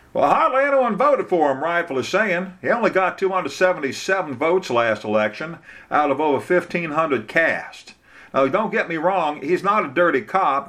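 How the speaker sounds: high-pitched, opinionated small-town lawyer; Bubba. Acted. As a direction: candid local lawyer, voice pitched well up.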